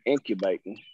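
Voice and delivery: incubating in the speaker's Southern drawl. Shown as a demonstration. Quoting the misheard word to the group, Southern drawl. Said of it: "in my Southern drawl".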